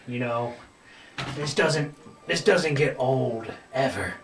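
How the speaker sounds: rowdy thug voice. Acted. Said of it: "elbowing and talking to one another".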